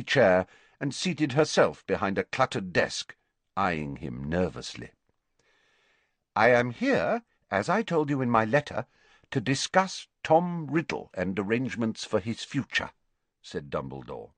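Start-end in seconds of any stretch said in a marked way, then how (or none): 6.3-12.9 lightly voiced formal visitor; a measured, polite statement of business; courteous younger headmaster. Visitor discussing Tom's future with the matron, formally.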